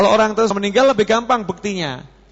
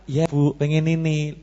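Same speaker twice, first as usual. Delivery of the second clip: put-on polite child; 3 dB quieter than usual. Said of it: "Otomatis anaknya".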